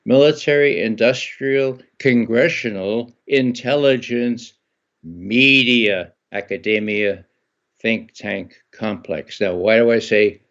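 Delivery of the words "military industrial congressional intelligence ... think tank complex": staccato, word by word; slowly. Shown as a demonstration. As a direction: spell it out one word at a time. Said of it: "I'll say it slowly".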